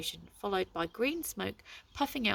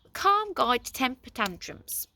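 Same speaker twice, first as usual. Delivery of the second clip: slow, louder dazed box; dizzy voice; 5 semitones higher, 6 dB louder than usual. A narrator's reading. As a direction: still woozy, offering advice. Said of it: "in a dizzy voice".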